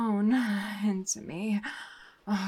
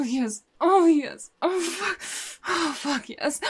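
rising to loud, higher cries of release; climax cries; 6 semitones higher, 9 dB louder, slower than usual. Acted. Reaching her climax with the detective, loud cries. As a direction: let go fully, louder and higher each time.

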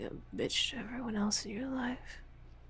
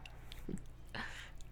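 short breathy chuckle; quiet, teasing huff of laughter; taunting chuckle; 13 dB quieter than usual. Acted. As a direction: laugh softly under the breath. Boasting to partner in audio roleplay.

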